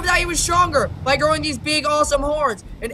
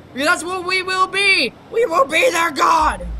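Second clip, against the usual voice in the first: dark lord; 4 semitones higher than usual. Acted. Declaring godhood over creatures.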